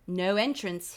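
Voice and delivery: put-on lightly done English accent guard; clipped English guard line. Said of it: "I say in an English accent".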